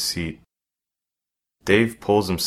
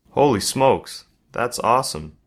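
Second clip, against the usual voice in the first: excited; 5 semitones higher, 4 dB louder than usual. Acted. Boy amazed by classmate's drawing.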